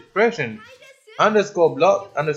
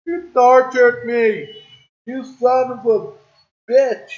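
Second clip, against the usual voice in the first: raised, higher-pitched cursing; angry outburst; 4 semitones higher, 4 dB louder than usual. Real, not acted. Player cursing the game that tortured them, angry outburst. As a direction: curse the game in loud frustration.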